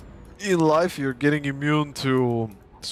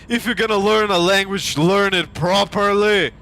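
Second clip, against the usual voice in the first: angry scolding; 6 semitones higher, 4 dB louder than usual. Real, not acted. Angry rant at the mockers.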